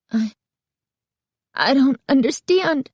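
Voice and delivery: high, halting and choked; stunned girl choking out her confusion. A narrator's reading. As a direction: force the words out through shock. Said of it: "Carly Beth managed to choke out".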